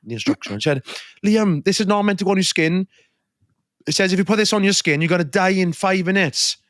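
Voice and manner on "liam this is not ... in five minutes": higher-pitched imitation of an alarmed sister; grave prank warning. Older sister reading fake instructions to her brother, alarmed warning. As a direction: deliver a made-up danger as if true.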